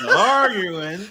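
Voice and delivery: "Arguing" mangled, drawn out through laughter; mock the botched "Arguing", half laughing; mimicked mispronunciation. Listener replays the man's botched word, amused mimicry. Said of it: "What did this man just say?".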